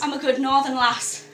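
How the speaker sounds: hammed-up northern English accent, drifting Scottish; mock northern lass, slightly Scottish. Co-host playing up her roots, northern accent. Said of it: "I'm sounding Scottish there".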